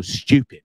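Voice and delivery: "stupid" with a mushy English "shtyoo" start; mum's English pronunciation. Retold or imitated. English mum dismissing her son's show, "stupid" as "shtyoo-pid". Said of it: "that's how she says it".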